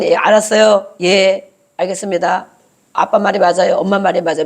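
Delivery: lightly voiced obedient child; yes-only child. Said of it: "매일 예만 하는 사람". (순종만 하는 자식을 살짝 흉내 내듯)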